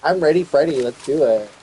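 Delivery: loud, high battle cry; rally yourself for war; ready to fight everyone, shouting; fired-up hype. Acted. Hyping up for war.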